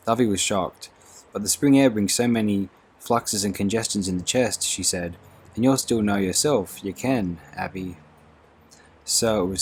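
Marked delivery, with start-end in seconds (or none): 1.3-4.6 lightly voiced fussing Scots maid, a bit louder. Dovey voiced in the story. 5.5-8.0 Scots maid. Acted. Dovey voiced in the story.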